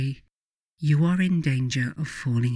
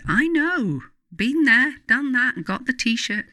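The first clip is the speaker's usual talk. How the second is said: wry self-mockery; 9 semitones higher than usual. Real, not acted. Rueful admission of own mistakes.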